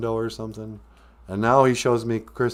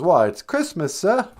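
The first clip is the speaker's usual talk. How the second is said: put-on English accent; 6 semitones higher than usual. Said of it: "he had an English accent".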